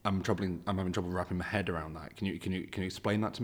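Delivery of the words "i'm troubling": ordinary talk, nothing marked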